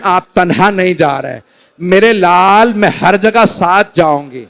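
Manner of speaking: mournful recited narration; masaib recitation. Acted. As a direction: tell the mother's farewell tenderly. Masaib recitation, mother's farewell. (ग़मगीन मसाइब का बयान)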